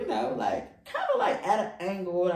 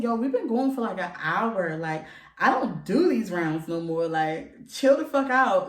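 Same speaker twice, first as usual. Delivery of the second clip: retold exasperation; 6 dB louder than usual. Retelling her protest to him.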